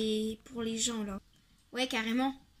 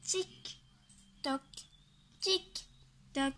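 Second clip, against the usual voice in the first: taunting tick-tock; 2 semitones higher, 6 dB quieter, slower than usual. Acted. Monster mocking the clock.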